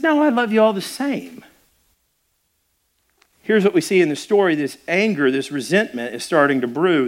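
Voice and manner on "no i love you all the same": reassuring father. Retold or imitated. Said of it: "I said".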